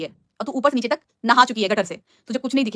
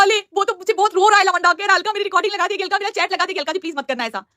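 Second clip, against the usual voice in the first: higher, babyish imitation of a pleading woman; mock whiny babyish voice; 5 semitones higher than usual. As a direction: mimic her pleading in mocking baby talk. Mockingly quotes a woman reporting his crying. (बच्चों जैसी तुतलाती, नकली रोनी आवाज़)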